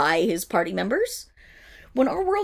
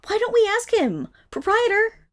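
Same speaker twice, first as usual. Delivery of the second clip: high, louder call across the room; calling across the shop to the proprietor, higher and louder; 11 semitones higher, 6 dB louder than usual. Acted. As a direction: summon the owner over.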